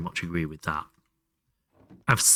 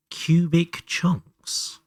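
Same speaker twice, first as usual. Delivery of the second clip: puzzled echo; 8 semitones higher, much slower than usual. Shown as a demonstration. Echoing a puzzling mod name.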